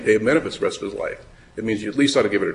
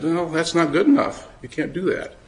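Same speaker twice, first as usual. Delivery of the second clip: higher-pitched retold rebuff; mildly displeased refusal; 6 semitones higher than usual. Lawyer voicing the department rejecting the claimant's excuse, mildly displeased. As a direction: voice an official turning someone down, pitch raised. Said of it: "take that very kindly and said".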